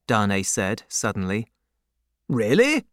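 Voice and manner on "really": a touch of surprise, lifted up; mildly surprised question. Acted. Stryver surprised that Darnay knows the man, lightly lifted.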